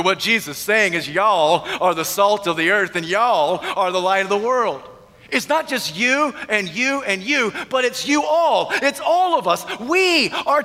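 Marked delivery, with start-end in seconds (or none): 1.1-4.8 lightly Southern "y'all" delivery; Southern vernacular. Retold or imitated. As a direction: slip into a touch of Southern vernacular. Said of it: "In good Southern vernacular".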